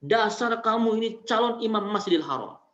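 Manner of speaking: mother scolding her son in anger; mother's scolding snap. Retold or imitated. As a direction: snap at the boy with a blessing inside. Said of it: "Dibentak anaknya".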